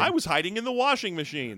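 put-on runaway kid. Acts the returned runaway kid.

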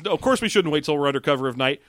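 quick, dismissive retort; mocking the plot's logic at speed; sarcastic answer. Real, not acted. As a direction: brush the question off fast. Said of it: "Well, no, because".

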